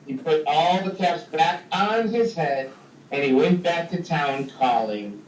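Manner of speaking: lively read-aloud story voice, big pitch swings; storytelling for kids. A narrator's reading. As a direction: tell it like a picture book to a class. Reads story to children.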